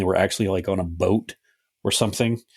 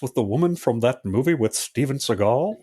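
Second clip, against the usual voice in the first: lightly voiced cartoon father; a hint of a cartoon dad questioning his son; 2 semitones higher than usual. Father asking his son about a woman, light cartoon dad impression. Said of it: "like an older Bobby Hill".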